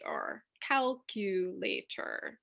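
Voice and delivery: whispered, slow "calculator"; modelling quietly for students; soft demo. Shown as a demonstration. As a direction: breathe the word out slowly. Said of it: "if I isolate them".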